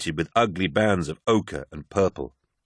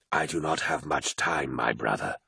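a ghostly wolf questioning the lost hero; eerie wolf voice; 6 semitones lower, 7 dB quieter than usual. Acted. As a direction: draw each word out like a spectral beast. Wolf speaks urgently.

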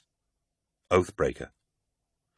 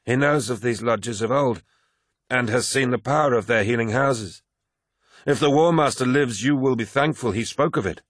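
higher-pitched, insistent character voice; earnest Targost; 5 semitones higher than usual. Acted. Targost defends Erebus's knowledge of healing, insistent. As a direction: defend him firmly, pitched up.

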